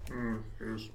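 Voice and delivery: soft little creature-like murmur; Yoda. Acted. Trying Mister Bean's mumble, drifting into Yoda. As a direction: try a mumbled Bean that slips into a wise puppet. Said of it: "I keep going to Yoda".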